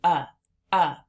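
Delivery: "uh" said as an isolated short vowel; short U sound. Shown as a demonstration. Teacher demonstrates the letter U, short "uh" sound. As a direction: give a clean, separate "uh". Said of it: "that makes the sound uh".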